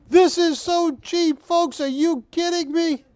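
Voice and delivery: can't believe the price; excited disbelief. Real, not acted. Auctioneer hyping a cheap lot.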